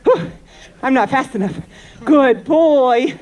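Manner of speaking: panting after running; breathless from chasing the horse; out of breath. Real, not acted. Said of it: "Whew, I'm out of breath".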